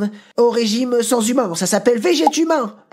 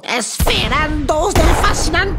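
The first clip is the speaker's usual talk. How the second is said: theatrical exclamation; 5 semitones higher, 3 dB louder than usual. Acted. Mock-Spanish exclamation.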